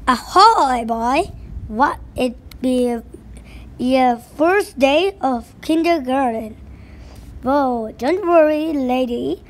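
hearty pirate brogue with a gruff growl; a pirate greeting the new kids; pirate captain voice. Acted. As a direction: play the jolly sea captain at the wheel. Pirate bus driver voice.

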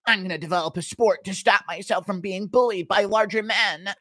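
lightly voiced know-it-all; a hint of schoolroom pedant; Ryan Hall. Nerd correcting the school bully, mildly pedantic impression. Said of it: "Impression of Yoel Romero shoving Ryan Hall into a school locker".

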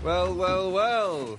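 drawn-out sly well, well, well; punny well well well. Shown as a demonstration. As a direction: savor each "well" like a pun. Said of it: "Get it?".

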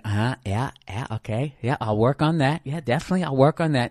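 half-hearted uh-huh yeahs; mock placating. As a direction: nod along, humouring her. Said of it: "you're nodding your head".

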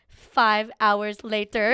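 loud, very slow narrator parody; SpongeBob time card. Retold or imitated. Joking how long the trill lasts, slow announcer parody. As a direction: draw it out like a cartoon time card. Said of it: "do you ever watch SpongeBob".

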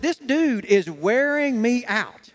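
slow, drawn-out exasperation; exasperated complaint. Retold or imitated. Man telling Angie about persistent David, exasperated complaint. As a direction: drag out each word, fed up.

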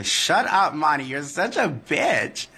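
play-slap a friend with words; playful mock insult. Real, not acted. Teasing her friend Monty over the camera, playful mock insult.

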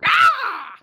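loud, high bird-god squawk; jay god squawk. Acted. Player voices a jay god ending his sentence, high squawk. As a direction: cap it off with a sudden high screech. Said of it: "every time he ended a sentence, he would end it with".

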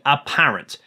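"apparent" set apart and emphasised; stress on apparent. Real, not acted. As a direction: lean on the word "apparent". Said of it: "I stress the word".

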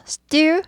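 stew as one long high syllable, no vowel after s. Shown as a demonstration. Teacher showing the first beat, one-syllable stew. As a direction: stretch stew, s running straight into tense t. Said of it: "이게 이제 모음이 없잖아요".

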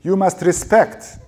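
high, slow, very loud yell; drawn-out furious scream. A narrator's reading. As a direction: scream it as an order, drawing the words out. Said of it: "Dado screamed at her".

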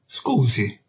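smooth it over with fake politeness; a touch of mock courtesy; mannered politeness. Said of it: "facendomi manieroso".

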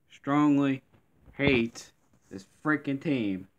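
heated, slow declaration of hate; emphatic disgust. Real, not acted. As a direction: spit out "Strongly" then drag it. Fuming at own team.

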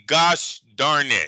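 slow, prim gosh darn it; prim mild oath. Shown as a demonstration. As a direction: say "Gosh darn it" slowly like a polite Easter curse. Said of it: "you gotta say".

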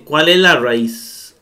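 "¿cuál es la raíz?" drawn out slowly; slow question. Shown as a demonstration. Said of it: "dice Septien". (pregunta lenta: "¿cuál es la raíz?")

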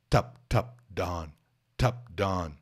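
Tup crisp and unvoiced, done voiced; ed sounds contrasted. Shown as a demonstration. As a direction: alternate Tup and done to show T versus D. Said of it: "duas pronúncias diferentes".

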